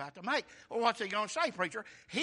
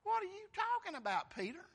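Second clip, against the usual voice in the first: rebuking Peter; 10 semitones higher, 5 dB quieter than usual. Retold or imitated. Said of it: "began to rebuke him".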